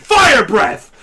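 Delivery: loud hammed-up attack call; mock monster battle cry. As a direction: shout the move name like a cartoon hero. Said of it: "And Godzilla's like".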